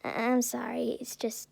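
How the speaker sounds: soft, halting, fading away; calmed-down apology. A narrator's reading. Calmed Inko apologizes to All Might, softly halting. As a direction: drop the volume and falter apologetically. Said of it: "Inko finally calms down".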